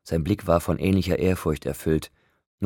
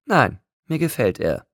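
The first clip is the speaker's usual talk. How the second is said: higher, louder, emphatic assurance; reassuring; 8 semitones higher, 5 dB louder than usual. A narrator's reading. Rosalie assures Bella she likes it, emphatic. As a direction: assure her brightly and firmly. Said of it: "versicherte Rosalie ihr".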